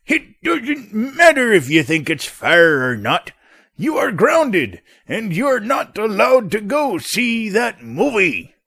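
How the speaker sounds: slow, firm dad, lightly voiced; father refusing the son; stern father. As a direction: lay down the grounding. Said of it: "playing both parts of the father".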